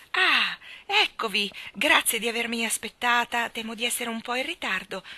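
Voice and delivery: put-on high, bright greeting of a little girl; joyful girl. Little star girl greeting Jane and Michael, high and joyful. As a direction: run in happy to see them.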